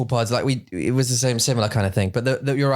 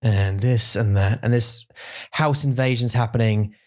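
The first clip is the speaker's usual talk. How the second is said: Stephen Fry impression. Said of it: "Stephen Fry's in your ear going".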